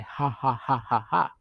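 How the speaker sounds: spoken, even "ha" laugh; imitated laughter. Shown as a demonstration. Teacher showing how written laughter sounds, recited laugh. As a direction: demonstrate a laugh syllable by syllable. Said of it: "people might laugh and they might sound".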